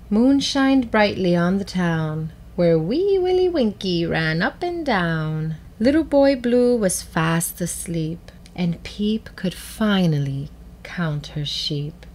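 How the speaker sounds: put-on measured storybook reading for children; gentle read-aloud with clear pauses; story narration. A narrator's reading. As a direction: read it like a picture book, with pauses. Reads a picture book.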